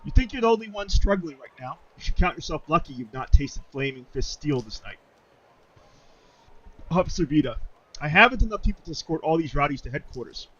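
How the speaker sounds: lightly put-on British officer; amateur British accent. Officer rebuking refugees and requesting reinforcements, light British accent. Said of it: "I've got a terrible British accent".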